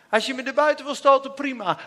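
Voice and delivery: ordinary talk, nothing marked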